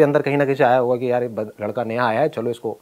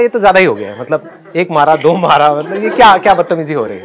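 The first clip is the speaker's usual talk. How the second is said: rising anger, getting louder toward the end; angry retort; 5 dB louder than usual. Retold or imitated. Student telling off the PT sir, rising anger. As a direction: push back hard, building outrage.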